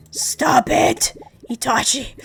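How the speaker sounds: hushed telling-off of a pet; whispered scolding. Real, not acted. Telling her pet Itachi off mid-stream, whispered. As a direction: whisper stop to the animal.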